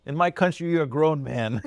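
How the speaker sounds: high, loud incredulous dad; mock dad scolding. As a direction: scoff like a stern immigrant dad. Imitating dad's scolding.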